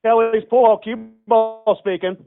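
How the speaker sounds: robotic voice through the phone line. Real, not acted. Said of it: "you sound like a robot voice".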